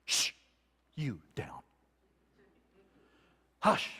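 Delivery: low, soft shushing; quiet the wind like a restless child; hushing the storm. Retold or imitated. Jesus standing on the stern, hushing the storm.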